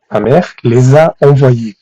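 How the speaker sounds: measured, deliberate French example; slow model sentence. Shown as a demonstration. Teacher modelling the corrected French sentence for students, slowly. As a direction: say it slowly for learners to follow.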